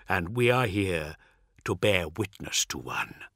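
dark preacher expounding, understated; measured, cryptic character monologue; lightly voiced cryptic apostle. Voices Cartho's cryptic speech.

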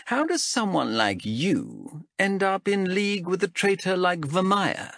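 lightly voiced stern elf captain; a hint of a cool interrogator. Zenthi voiced by narrator.

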